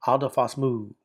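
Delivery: "adophos mu" joined with no gap; "mu" leaning on "adophos" as a single word; run together as one word. Shown as a demonstration. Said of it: "pronounce this so closely together".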